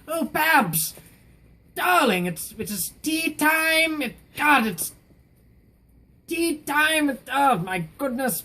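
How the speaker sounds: very high, hammed-up British old lady; old British woman. Old lady calling her cat to tea, hammed-up British. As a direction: trill it like a doting elderly Englishwoman. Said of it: "hire an old British woman".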